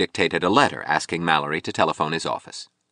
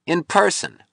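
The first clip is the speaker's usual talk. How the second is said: mock welcome from a drunk man, pitched way up; 12 semitones higher than usual. A narrator's reading. Drunk sculptor greeting Rourke at the door, swaggering. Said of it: "He was obviously drunk".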